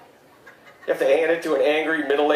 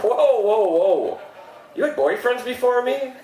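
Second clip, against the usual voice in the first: mock shock; 7 semitones higher than usual.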